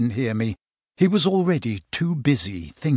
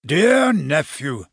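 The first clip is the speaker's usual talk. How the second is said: slow, lightly voiced old uncle reading out; a hint of Santa's voice; uncle's letter; 3 semitones higher, 4 dB louder, much slower than usual. Reads Santa's letter aloud.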